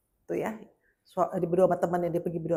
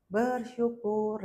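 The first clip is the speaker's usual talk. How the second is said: drawn-out urging; much slower than usual. Retold or imitated. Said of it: "Saya bilang lagu-lagu".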